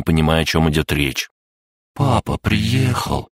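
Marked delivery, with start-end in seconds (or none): 1.9-3.3 patient explaining. A narrator's reading. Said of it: "терпеливо пояснил дракоша".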